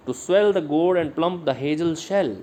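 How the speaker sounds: slow, "swell", "gourd", "plump", "hazel" and "shell" each hit harder; scanned iambic stress. Shown as a demonstration. Teacher scans the poetry line for the students, slow and stressed. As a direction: read it out beat by beat, slowly. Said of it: "ये underline किए हुए हैं, ये stressed हैं".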